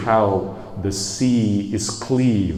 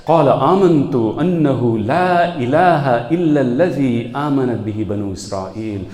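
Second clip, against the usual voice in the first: raised, forceful recited cry; mock shout in Arabic; 3 semitones higher, 3 dB louder, much faster than usual. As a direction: call it out like a retold desperate plea. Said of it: "Then he shouts".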